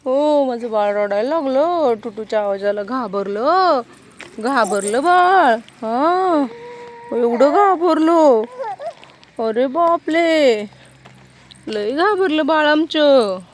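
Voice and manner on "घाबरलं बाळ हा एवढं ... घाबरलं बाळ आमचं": mother cooing to her frightened little one, slowly. Real, not acted. Mother soothing frightened baby.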